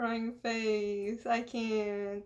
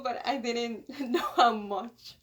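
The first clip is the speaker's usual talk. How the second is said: laughing through tears; slower than usual. Real, not acted.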